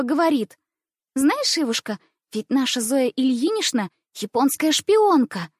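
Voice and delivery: high, loud sweet teasing; playful schoolgirl, high voice; mock-soothing girl. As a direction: reassure her while mocking. Ivina voiced.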